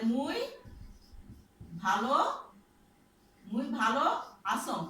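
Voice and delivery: slow Rangpur dialect, মুই ভালো আসং with মুই for আমি and আসং for আছি. Shown as a demonstration. Teacher shows the class the Rangpur dialect, slow Rangpur dialect. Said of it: "রংপুরের আঞ্চলিক ভাষায় বলি".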